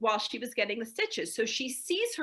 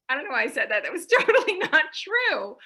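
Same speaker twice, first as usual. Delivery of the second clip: embarrassed laugh; 4 semitones higher, 8 dB louder, faster than usual. Retold or imitated. Imitating embarrassed self-excuse.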